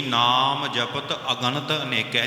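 slow, measured scripture chant; slow recitation. Shown as a demonstration. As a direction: recite it slowly and reverently. (ਹੌਲੀ ਪਾਠ ਵਾਲੀ ਅਵਾਜ਼)

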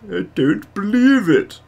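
high, slow exasperated catchphrase; Victor Mildrew. Pretend. Streamer doing a sitcom catchphrase, high drawn-out mock exasperation. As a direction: draw it out in hammed-up disbelief. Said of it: "Yeah, Victor Mildrew".

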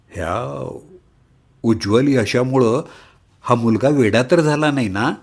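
a mild worried tone; worried auntie. Acted. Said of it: "Parvati काकूंचा काळजीचा स्वर".

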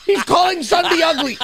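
high-pitched indignant cry; appalled. Real, not acted. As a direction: protest on a friend's behalf. Appalled on behalf of friend.

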